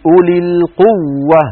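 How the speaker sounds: "أولي القوة" slowly, the doubled waw shown; like a sheikh correcting, press "القوة"; imitating the sheikhs. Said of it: "المشايخ على طول يقولون".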